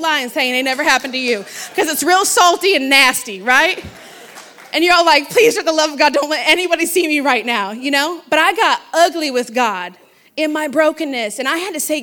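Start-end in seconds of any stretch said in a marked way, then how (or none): 5.3-7.7 loud, emphatic mock plea; exaggerated plea under pressure; mock pleading. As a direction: beg loudly, playing up the embarrassment. Acted plea not to be seen.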